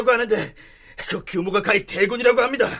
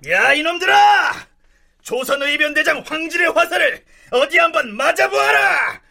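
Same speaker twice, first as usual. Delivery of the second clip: shouted taunt; 3 semitones higher than usual. Acted. General taunts the enemy.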